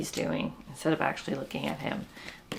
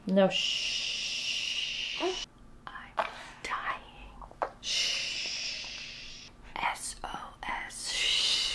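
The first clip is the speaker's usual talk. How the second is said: whisper; 5 semitones higher, 5 dB quieter, much slower than usual. Real, not acted. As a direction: breathe it, barely voiced. Whispering near a sleeping baby.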